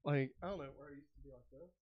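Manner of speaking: breathless, trailing off; out of breath. Real, not acted. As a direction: speak short of breath. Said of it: "I can't get my breath".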